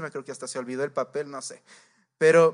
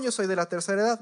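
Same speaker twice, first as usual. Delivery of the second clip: mock entitled claim; 3 semitones higher, faster than usual. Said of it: "No era de la tercera edad". (reclamo indignado pero sin gritar)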